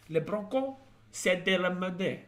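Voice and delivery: high hammed-up Spanish accent, a little slow; mock Spanish accent. Repeating the French Broncos joke in a put-on Spanish accent. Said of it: "I'm doing that Spanish accent".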